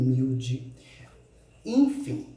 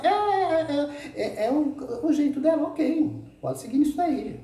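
mocking shrug; 11 semitones higher than usual. Real, not acted. Sarcastic shrug about rival.

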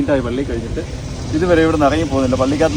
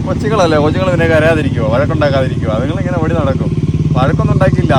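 raised, heated protest, louder; indignant parent, voice raised and heated; indignant defense; 3 semitones higher, 6 dB louder than usual. Real, not acted. Defending kids scolded at church.

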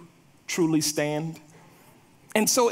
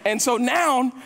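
ordinary talk

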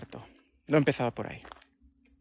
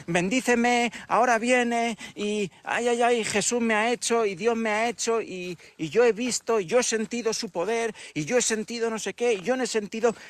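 mock believer testimony; 4 semitones higher than usual. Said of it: "se las pasan diciendo todo el rato".

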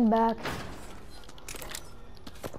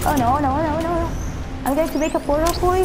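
real alarm, no no no; panicking; 5 semitones higher than usual. Real, not acted. Enemies arrive.

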